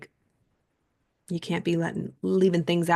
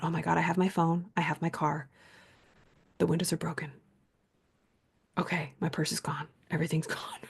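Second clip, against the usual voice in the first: hushed inner monologue; 6 dB quieter than usual. Retold or imitated. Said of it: "I thought".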